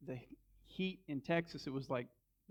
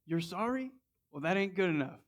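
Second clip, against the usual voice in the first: hammed-up indignant retort; mock angry; 4 semitones higher than usual. Apologizing made him more mad.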